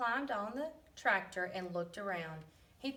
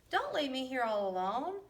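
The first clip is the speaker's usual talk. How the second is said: pleading sheep; 4 semitones higher, 3 dB louder than usual. A narrator's reading. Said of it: "cried Sheep".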